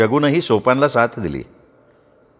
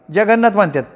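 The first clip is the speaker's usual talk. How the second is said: higher rustic wife's voice on the phone; village wife on phone; 9 semitones higher than usual. Acted. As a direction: talk up brightly like a country housewife. (फोनवर बोलणारी गावरान बायको, उंच आवाज)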